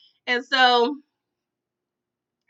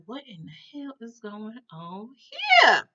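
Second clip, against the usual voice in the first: retold disbelief; slower than usual. Boy sees chicken put in microwave.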